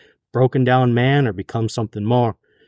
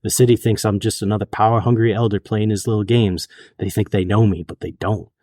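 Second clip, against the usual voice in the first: put-on southern accent; 2 semitones lower than usual. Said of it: "trying to do a southern accent".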